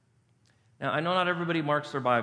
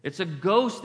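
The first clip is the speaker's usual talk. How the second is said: quicker, understated cry of alarm; mildly alarmed quote; 2 semitones higher, slower than usual. Acted. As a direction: report the fright with a touch of alarm. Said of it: "they cried out in fear".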